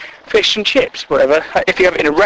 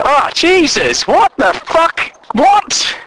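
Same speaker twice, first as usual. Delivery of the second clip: slow, rising appalled cry, much higher; appalled shock; 8 semitones higher, slower than usual. Acted. Stunned listener hearing that potatoes have skin, appalled. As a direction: recoil in disgust at the idea.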